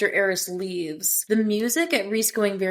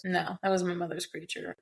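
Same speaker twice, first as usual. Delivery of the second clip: imitated dark tone; 7 dB quieter than usual. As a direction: drop the volume for a mildly dark retort. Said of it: "like, dark tone".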